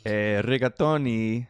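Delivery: put-on slow, drawn-out comic Italian accent; mock Italian accent. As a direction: draw it out in a playful Italian accent. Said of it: "put your Italian accent on".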